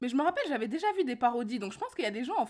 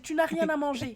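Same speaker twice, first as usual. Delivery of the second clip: mom voice; 5 semitones higher than usual. Retold or imitated. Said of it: "elle dit".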